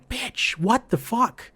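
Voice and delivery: a retold indignant outburst; mock outrage. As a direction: act offended and disbelieving. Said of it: "And I'm like".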